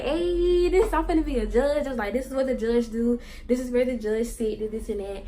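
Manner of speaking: put-on loud, high, thrilled child; proud little kid in a court robe, loud and high; excited kid. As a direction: burst out like a kid playing judge.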